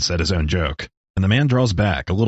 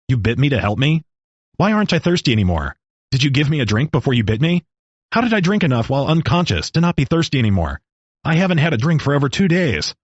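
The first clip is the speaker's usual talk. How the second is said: higher, faster, tumbling panicked questions; bewildered questions; 5 semitones higher, faster than usual. Acted. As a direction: fire off the questions in disbelief. Man bewildered by talking snake.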